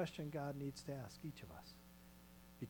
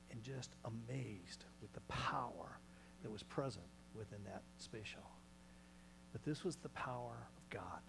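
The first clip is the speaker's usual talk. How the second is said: awed whisper; 3 semitones lower, 6 dB quieter than usual. Acted. Preacher to church, whispering in awe. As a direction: breathe it like something holy. Awed hush about God's power.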